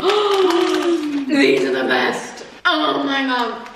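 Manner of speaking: excited squeal. Real, not acted. Excited tasting new crisps.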